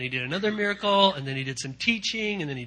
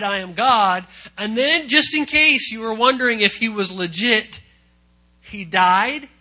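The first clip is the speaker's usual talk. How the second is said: higher, louder, driving to the climax; climactic preaching shout; 5 semitones higher, 8 dB louder than usual. Real, not acted. Preacher to congregation about Jesus, rising climactic shout.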